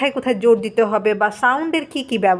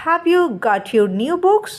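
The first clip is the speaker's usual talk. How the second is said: very slow, word by word English reading; slow dictation read; 5 semitones higher, much slower than usual. Shown as a demonstration. Teacher reading the textbook to students, very slowly. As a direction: read each word out so the class can follow. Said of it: "teacher আবার বলছে যে".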